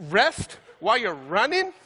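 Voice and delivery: slow, rising, disbelieving question; incredulous echo. Shown as a demonstration. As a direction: repeat it as if it makes no sense. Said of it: "incredulous repeat".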